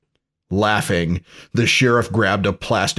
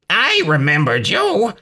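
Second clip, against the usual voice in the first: put-on high-pitched Hispanic-accented villain; exaggerated Hispanic accent, pitched up; thick Hispanic accent; 10 semitones higher than usual. A narrator's reading. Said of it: "in a thick Hispanic accent".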